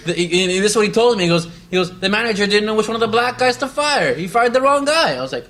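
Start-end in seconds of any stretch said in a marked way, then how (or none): 2.0-5.1 higher, louder, incredulous; excited retelling. Retold or imitated. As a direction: tell it like unbelievable gossip. Lincoln explaining his firing.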